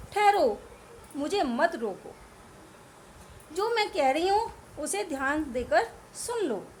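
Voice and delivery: a hint of a pleading queen; Kaikeyi pleading. Teacher voicing Kaikeyi stopping the court, mild plea. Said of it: "तो कहती हैं वो केकई".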